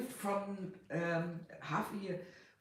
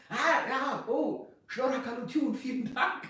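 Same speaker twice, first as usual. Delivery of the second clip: a light imitation of grandfather blurting out "Shnor Hakadutun", a bit higher and louder; imitating grandfather; 6 semitones higher, 3 dB louder than usual. Grandfather blurting Armenian thanks out of the blue, lightly imitated. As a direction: toss it off casually as grandfather did. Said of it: "and sometimes his father, so out of the blue".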